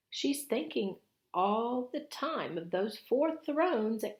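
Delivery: anxious Missus Beaver. Acted. Missus Beaver warning the children, high and worried. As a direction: lay out the danger, fretting.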